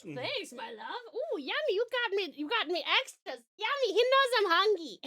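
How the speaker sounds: high, swooping squeal of delight; hammed-up, sing-song royal excitement; gushing queen. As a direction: coo greedily over the food in a silly high voice. Playing queen, gushing over served meal.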